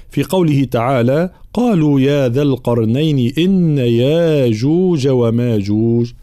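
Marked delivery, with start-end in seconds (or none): 1.5-6.1 slow chanted tajweed with long vowels; Quran recitation. Shown as a demonstration. Teacher reciting the next verse, measured tajweed recitation.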